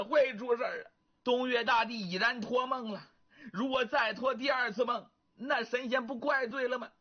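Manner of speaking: lightly voiced wife pleading urgently; worried wife.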